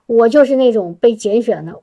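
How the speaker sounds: ordinary delivery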